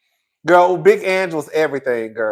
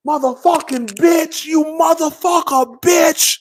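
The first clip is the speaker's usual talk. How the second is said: higher pitched stream of curses; mock cursing rant; 7 semitones higher than usual. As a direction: rattle off insults like a mob wife. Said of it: "they used to be cursing".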